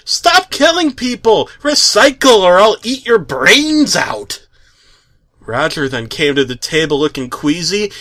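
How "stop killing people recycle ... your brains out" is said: loud, much higher yell; high-pitched hammed-up yell. A narrator's reading. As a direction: scream it out of nowhere at the family. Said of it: "Haley then yells".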